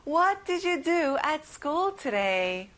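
slow word by word, "what" leading; very slow repeat. Shown as a demonstration. Teacher repeats the sentence slowly for children to follow. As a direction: give it again slowly so they can echo. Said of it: "같이 따라해볼까요".

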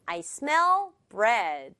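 "I" light, "smell" and "bread" stressed. Shown as a demonstration. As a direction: punch "smell" and "bread", skim over "I". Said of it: "이게 자연스럽네요".

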